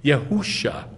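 "Yehusha" with long oo in the middle; misread hoo. Shown as a demonstration. Teacher quoting how they read it, "Yehusha" with hoo. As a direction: say "Yehusha" as yeh-HOO-shah. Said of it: "they read that as".

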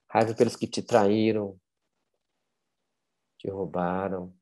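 measured meditation guide, with long pauses; unhurried guided-visualization voice. Acted. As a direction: lead listeners gently inward, leaving room between phrases.

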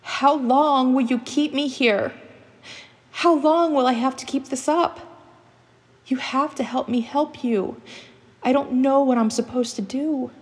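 desperate high-pitched yell into the open. Acted. Lost captive yells out into the forest for answers, desperate yell. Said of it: "I yelled out into the forest".

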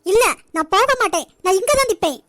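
wife defying her husband in front of the guest; defiant refusal. Acted. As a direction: plant your feet and refuse. Janani refuses to go.

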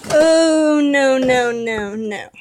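drawn-out "oh no" sinking in pitch; dismayed. Real, not acted. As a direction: let the dismay slide downhill. Rips the box by accident.

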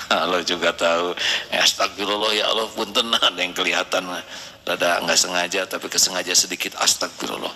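low, laughing apology; embarrassed laugh. Real, not acted. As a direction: laugh it off sheepishly. (tertawa malu sambil minta maaf)

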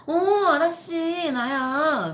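high, slow, overly sweet call; boss on the phone. Retold or imitated. Boss calling his sleeping employee, imitated high and slow. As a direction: coax her like a pushy boss.

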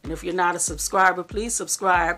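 talking while chewing; words around a bite of coconut; mouth full. Real, not acted. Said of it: "I was just eating some coconut pieces".

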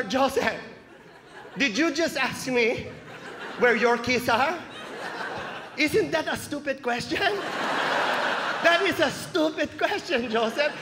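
put-on slow, drawn-out Filipino-accented scolding; incredulous mom spelling out a stupid question; scornful mom. Mom rebuking her son for asking about keys, slow scornful accented voice. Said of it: "Now I gotta ask my mom for help".

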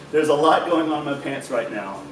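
laughing through the repeated joke. Real, not acted. Repeating his groin joke to his friend, laughing. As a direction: crack up as you say it again.

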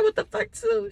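high, soft disbelieving squeak; shocked girl. Retold or imitated. Viewer reacting to her reading, in a high shocked squeak. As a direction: squeak it like a friend who can't believe it. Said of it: "I'm like".

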